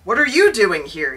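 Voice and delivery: exclaiming. Acted. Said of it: "he exclaims".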